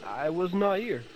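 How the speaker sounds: put-on high, flustered French policeman accent; nervous French officer, stammering; French gendarme voice. Plays beaten-up French gendarme.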